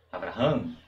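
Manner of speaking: "Abraham" run together, no break; non-stop Abraham. Shown as a demonstration. Teacher repeats the name for class, no pause. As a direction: keep "Abraham" flowing and quick. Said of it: "Você não para".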